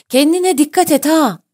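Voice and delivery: high, loud call after someone; shouted warning. A narrator's reading. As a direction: call it out across a distance. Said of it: "diye bağırdı".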